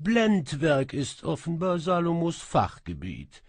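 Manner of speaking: high, loud, proud cat proclamation; the cat djinn presents itself, high and loud; announcing cat djinn. Acted. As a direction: announce yourself grandly.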